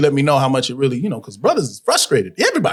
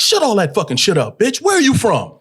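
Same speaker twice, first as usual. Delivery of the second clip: aggressive challenge; 4 semitones higher than usual. Retold or imitated. Acting out Ving's aggressive challenge.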